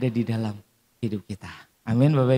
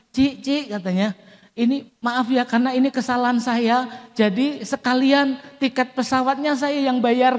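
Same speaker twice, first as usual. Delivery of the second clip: higher, eager apology on the phone; apologetic caller; 8 semitones higher than usual. Retold or imitated. Caller apologizing to the wife, higher and eager. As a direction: imitate a caller saying sorry, pitched up.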